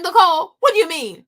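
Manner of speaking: friend's remark sets off a loud retort. Retold or imitated. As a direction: push back loudly, half-angry. Confronting friend in retold argument.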